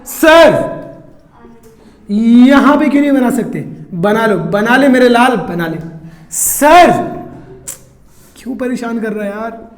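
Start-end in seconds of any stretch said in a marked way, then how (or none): 0.0-3.6 mock pestering student. Teacher voices a nagging student. 6.3-6.9 mock pestering student. Teacher voices a nagging student.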